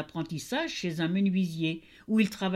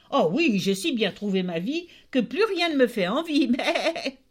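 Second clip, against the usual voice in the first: contented goat; 5 semitones higher, 4 dB louder than usual. Acted. Contented goat, then laughing.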